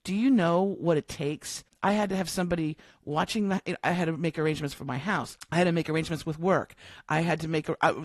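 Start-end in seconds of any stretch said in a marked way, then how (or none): 0.0-1.6 mildly exasperated, slowing on the second question; imitated frustration, kept in check; retold frustration. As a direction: push back like a frustrated partner. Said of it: "frustrated with her".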